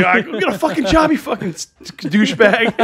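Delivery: loud mock Boston tough guy; Boston accent. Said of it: "Need to work on my Boston accent".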